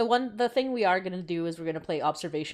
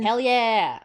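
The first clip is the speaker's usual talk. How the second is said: excited; 5 semitones higher, 7 dB louder than usual. Real, not acted. Cheering about the plus one.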